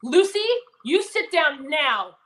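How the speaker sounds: loud, slow, commanding drill sergeant voice; military voice. Retold or imitated. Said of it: "I have a military voice".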